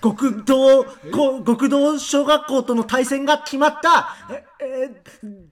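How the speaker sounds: anime episode preview. Acted. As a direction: hype up the next episode like an anime. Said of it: "綱引き少年ヒパタの次回予告".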